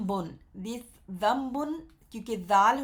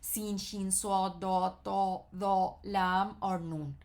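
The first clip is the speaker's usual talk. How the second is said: reciting letters; slower than usual. Shown as a demonstration. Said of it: "حرف شمسیہ کون کون سے ہوتے ہیں؟".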